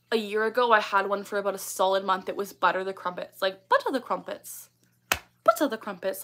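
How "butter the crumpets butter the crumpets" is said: lightly put-on British accent. Shown as a demonstration. Streamer showing her old tic, British accent. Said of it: "like that".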